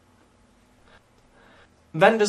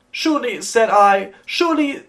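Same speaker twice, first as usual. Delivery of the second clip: startled; 6 semitones higher, 6 dB louder than usual. Acted. Startled by tapping at window.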